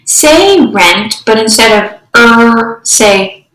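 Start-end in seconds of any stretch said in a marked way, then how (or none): 2.2-2.8 "er" for the r sound, held; just the sound "er", drawn out; isolated phoneme. Shown as a demonstration. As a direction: sound out "er" as a steady r. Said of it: "substituting phonemes".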